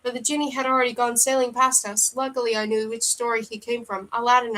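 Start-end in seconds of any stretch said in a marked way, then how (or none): 4.1-4.6 terse. Acted. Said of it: "I said tersely".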